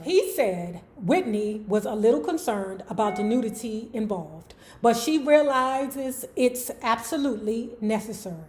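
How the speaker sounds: measured read-aloud of an article; narrating from the page. Real, not acted. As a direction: read the written passage out evenly. Reads article between own chat.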